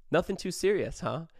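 high, sarcastic echo; mock their excuse back at them. Manager catching the friends lying, sarcastic echo.

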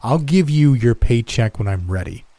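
contemptuous. Acted. Boss mocking and dismissing him.

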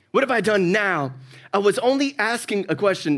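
annoyed brother, tired of the fight; exasperated sibling whine. Retold or imitated. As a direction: sigh it like the hundredth argument. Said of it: "the way he says it".

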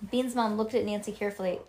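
ordinary delivery

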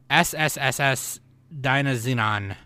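slow hissing snake voice, drawn-out S's. Pretend. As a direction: hiss each S like a snake. Hissing the title's S sounds.

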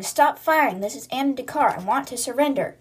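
imitated shout to surrender; retold yelling. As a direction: call out as if through a door. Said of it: "Anna's yelling".

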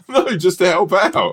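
slow and laughing, caught out. Real, not acted. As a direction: grin through the excuse. Laughing reply.

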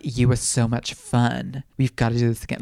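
lightly mocking flirty goodbye; imitated flirty. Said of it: "like, really flirty".

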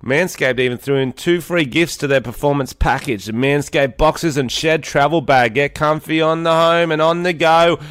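podcast host reading sponsor copy; lightly punched promo delivery. Acted. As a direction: sell it like a sponsor spot.

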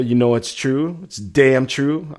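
a light imitation of a wrestler's catchphrase, slowed on damn true; Kurt Angle voice. Host doing a wrestler's catchphrase for the chat, lightly imitated. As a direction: drag out it's damn true like a wrestling promo. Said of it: "I'm in my Kurt Angle voice".

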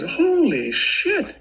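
high, very slow laughing disbelief; shocked laughing exclamation. Retold or imitated. Seeing his own blood spray, shocked and laughing. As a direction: gasp it out with a laugh. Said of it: "I said".

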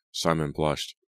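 usual speaking voice

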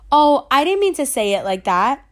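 breathy whisper, no voice at all; whispered aside. Retold or imitated. Friend backpedals to narrator in a whisper. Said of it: "And she was like".

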